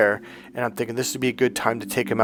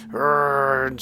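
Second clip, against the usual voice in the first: a short mock growl of frustration; mild retold angry growl; imitated angry growl. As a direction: growl it like an angry man grumbling. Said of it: "Adam was pissed, and I mean verbally".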